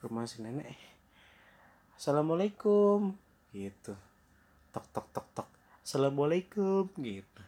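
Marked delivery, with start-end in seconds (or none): 2.0-3.2 high, louder call at the door; calling out greeting. Acted. Red Hood arriving at grandma's house, calling out. 4.7-5.5 soft spoken knock-knock; quick voiceless taps in words; imitated knocking. Knocking at grandma's door, imitated knocking. 5.8-6.9 higher-pitched door call; calling out greeting. Acted. Red Hood knocks at grandma's door, calling out.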